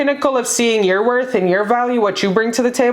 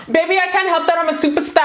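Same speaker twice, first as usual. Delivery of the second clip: fast, higher sassy quote; quoting Jocelyn Hernandez; 6 semitones higher, much faster than usual. Retold or imitated. Reader quotes a reality star to viewers, sassy and fast. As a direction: toss it off like a diva. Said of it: "I can't make a Puerto Rican accent".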